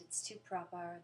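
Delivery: mildly proper British accent; British accent attempt. Shown as a demonstration. American answering a request for accents, modest British attempt. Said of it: "Americans trying to do British accents".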